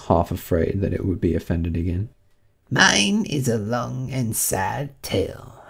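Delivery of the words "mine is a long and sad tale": slow, drawn-out mournful mouse voice; a high, woeful Mouse lamenting its lot; sighing. A narrator's reading. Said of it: "turning to Alice and sighing".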